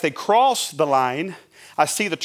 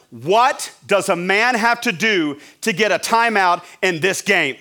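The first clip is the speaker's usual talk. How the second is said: half-held yell, slightly raised; frustrated yell; 4 semitones higher, 4 dB louder than usual. Acted. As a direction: act out exasperation at the ref. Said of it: "I walk up to him and I yell".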